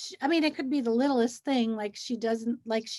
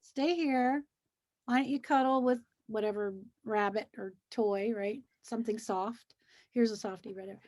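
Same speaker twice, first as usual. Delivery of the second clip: softer, gentle coaxing; soft soothing; 4 dB quieter than usual. Retold or imitated. Teacher to exhausted child, soft soothing voice. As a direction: settle the tired child down softly. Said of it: "And I'll say".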